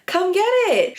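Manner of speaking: mock Staten Island challenge, pitched high; a hammed-up Staten Island dare to fight; Staten Island tough talk. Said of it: "when the Staten Island comes out".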